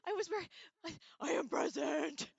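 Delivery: high, loud mock announcement; chat read-out. Streamer voicing a viewer's arrival in chat, hammed-up and loud.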